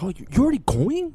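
lightly voiced dad seeing a guest off; imitating someone's dad. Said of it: "do his fucking voice so good".

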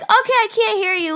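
put-on high drunken call; drunk impression. Drunk girl ending a FaceTime call, high voice. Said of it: "my drunk impression of myself".

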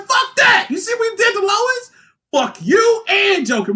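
high, hammed-up furious yelling; enraged Superman shout. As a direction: shout down a friend in grief-fuelled fury. Acts enraged Superman yelling at Batman.

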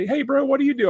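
high-pitched mock drunk kid. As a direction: imitate the eager tipsy probie brushing it off.

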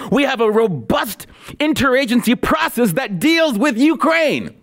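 a prissy, sing-song mock of her words. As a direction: ridicule the bureaucratic phrase in a lilting voice. Mocking quote of the official.

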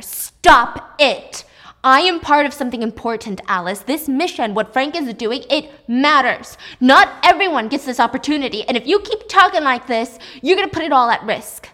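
loud, forceful rant; screaming. Acted. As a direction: yell at her to stop, furious. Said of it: "he screams at her".

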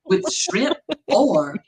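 slow, overdone reading of a takeout menu; slow theatrical reading of a takeout menu; dramatic menu reading. Retold or imitated. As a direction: ham up the menu like a bedtime story. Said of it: "she'd have to be like".

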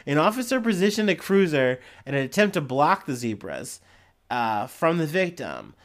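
measured headline-and-story reading voice; news read. Real, not acted. Podcaster reading an Ohio zebra attack story, news read. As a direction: read it out like a local news item.

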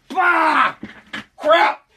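spitting out a bug; sputtering, disgusted outburst; just swallowed a bug. Real, not acted. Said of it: "I just swallowed a bug".

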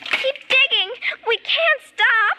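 high, urgent and pleading. Acted. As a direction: push him to keep going. Urging friend while digging.

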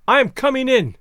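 ghostly mother voice. Acted. Ghost forces her way in.

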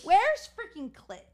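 laughing. Real, not acted. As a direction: barely get it out while laughing. Joking, laughing while asking.

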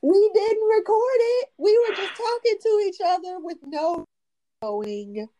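whiny wailing complaint; half-laughing lament about the lost episode; mock wail. Real, not acted.

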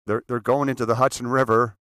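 loud, frantic broadcast alarm; urgent news bulletin, rising panic; panicked radio announcer. Retold or imitated. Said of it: "there was a voice".

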